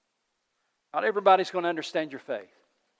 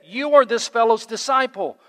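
a sneering accusation, high and loud; insulting; 7 semitones higher, 9 dB louder than usual. A narrator's reading. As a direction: spit it as an insult. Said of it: "hurled insults".

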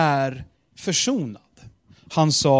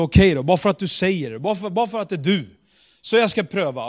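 grudging consent; 2 semitones higher, 4 dB louder, much faster than usual. Retold or imitated. Peter grudgingly agrees.

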